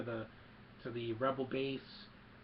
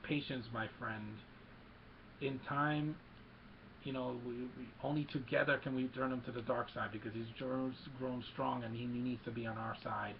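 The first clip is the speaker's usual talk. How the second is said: creepy Emperor voice; 4 dB quieter than usual. Retold or imitated. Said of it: "just a really creepy voice".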